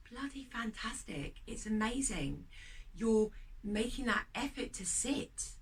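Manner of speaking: enthusiastic praise. Real, not acted. Encouraging praise after meditation.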